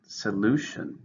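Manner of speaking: "Solution" said so-LU-tion, stress on LU; dictionary read of "Solution", middle stressed; stress on second syllable. Shown as a demonstration. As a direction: hit LU in "Solution". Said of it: "stress in the second".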